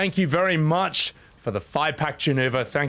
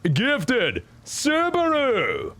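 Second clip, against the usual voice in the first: excited shout-out; 5 semitones higher, much slower than usual. Real, not acted. Hyped shout-out for a gift.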